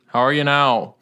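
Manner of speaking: lightly put-on Minnesotan accent. Podcast guest answering his introduction, mock Minnesotan accent. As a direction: greet with a hint of hammy Minnesotan. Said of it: "our shitty Minnesotan accents".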